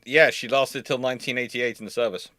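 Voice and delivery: ordinary talk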